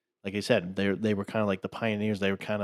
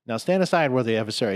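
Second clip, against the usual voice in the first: mock king; 2 semitones higher, 4 dB louder than usual. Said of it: "He's like".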